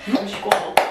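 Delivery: high, tearful reassurance; moved mother holding back tears; close to tears. Real, not acted. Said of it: "tu vas me faire pleurer". (au bord des larmes)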